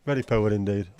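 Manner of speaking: loud deadpan echo; echoed catchphrase. Pretend. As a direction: boom the verdict back in your own voice. Own voice echo, louder.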